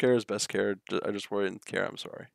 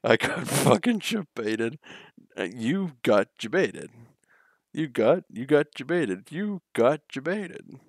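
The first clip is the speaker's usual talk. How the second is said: louder, slow teasing chant; singsong taunt; 3 semitones higher, 4 dB louder, slower than usual. Real, not acted. Streamer taunting themselves after falling for a trick, mock singsong. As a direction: rub it in like a playground taunt.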